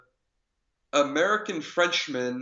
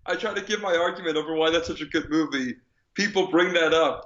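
higher-pitched frustrated protest; playfully aggrieved outburst; exasperated; 4 semitones higher, 3 dB louder, faster than usual. Real, not acted. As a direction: complain like it happens to you constantly. Exasperated that his argument gets derailed.

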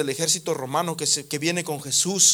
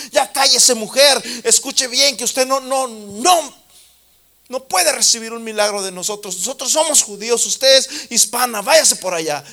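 scolding rebuke; 7 semitones higher, 7 dB louder than usual. Acted. Disciples rebuke shouting woman.

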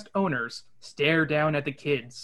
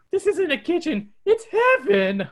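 much higher, slowed awestruck Shaggy; Shaggy proclaims; 12 semitones higher, 3 dB louder than usual. Acted. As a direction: proclaim it like heaven. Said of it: "Shaggy proclaims".

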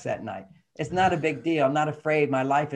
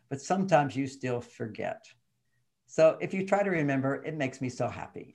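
gentle wife; 3 semitones lower than usual. Retold or imitated. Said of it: "she looked at me and she says".

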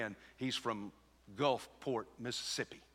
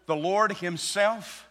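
slow, higher emphasis on "Lord himself"; emphatic stress; 7 semitones higher, 6 dB louder, much slower than usual. Shown as a demonstration. Preacher shows the verse is emphatic, stressing "Lord himself". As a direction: lean hard and long on "Lord himself". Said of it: "It's emphatic".

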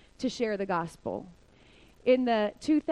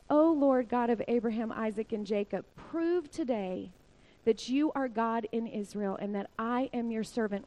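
measured, understated prayer with small pauses; calm prayer. Retold or imitated. Elijah praying before the people, calm. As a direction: pray it evenly, without any shouting. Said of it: "gets up so calmly".

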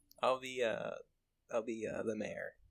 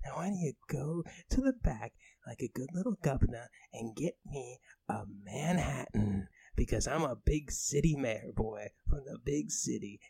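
put-on British accent. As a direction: keep the snobby British insults going. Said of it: "I do a great British accent".

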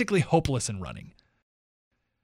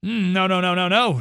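mock shout; 4 semitones higher, 4 dB louder than usual. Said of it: "shouted the other two in chorus".

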